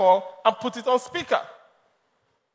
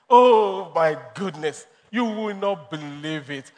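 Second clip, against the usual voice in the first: slow, drawn-out mock astonishment; gushing amazement; 5 semitones lower, slower than usual. Wife raving to her man about a bag, gushing. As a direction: gush over an irresistible find, stretching it out. Acting excited woman on phone.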